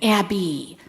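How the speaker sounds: lightly imitated Chicago accent, a stern stepdad's warning. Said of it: "in his Chicago accent".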